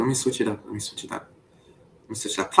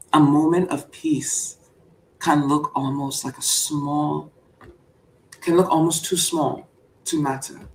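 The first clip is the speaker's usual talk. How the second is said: calm speech reading; 3 dB quieter than usual. Acted. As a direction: read it like a soothing inspirational speech. Reads a calm speech on peace.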